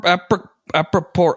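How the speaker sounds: apricor- fumbled, broken off twice; stumbling over word. Real, not acted. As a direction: trip over apri- apricor-. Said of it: "I can't say that".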